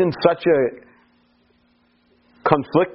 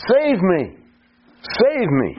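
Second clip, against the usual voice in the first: mildly raised plea for rescue; crying out; 4 semitones higher, slower than usual. Retold or imitated. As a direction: cry out in prayer, voice lifted a little. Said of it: "with a loud voice".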